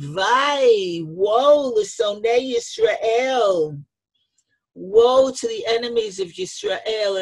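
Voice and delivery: high, drawn-out cry of woe, lightly acted; imitated elegy, pitched high; retold lament. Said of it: "he started making a kina".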